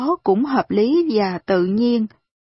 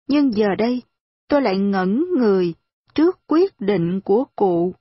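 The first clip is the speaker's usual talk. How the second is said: plain reading voice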